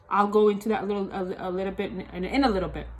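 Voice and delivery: speaking with a lisp; lisping through the words. Real, not acted. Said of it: "Excuse my lisp".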